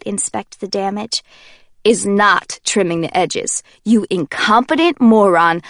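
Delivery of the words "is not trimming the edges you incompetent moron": cold anger. Acted. Warner furious at haircut.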